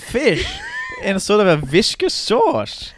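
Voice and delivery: high, shouted comic demand; indignant diner, played for laughs; mock outrage. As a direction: yell it in hammed-up disbelief. Playing outraged restaurant customer.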